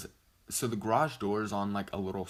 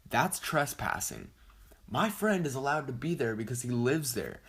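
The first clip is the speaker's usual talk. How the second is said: higher, emphatic indignant explaining; retold exasperated lecture; 4 semitones higher than usual. Friend schooling sister on trespassing, retold indignant argument. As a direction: spell it out in acted exasperation.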